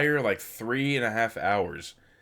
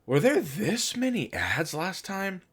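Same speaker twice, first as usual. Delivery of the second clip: incredulous; 9 semitones higher than usual. Retold or imitated. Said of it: "I was like".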